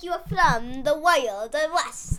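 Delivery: put-on British-Australian accent muddle. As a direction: wobbly fake Australian accent. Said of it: "you're doing the Australian accent".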